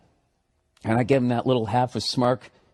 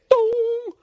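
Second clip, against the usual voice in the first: much higher shouted boom. Acted. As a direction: punch it out like a big explosion. He hits the call button.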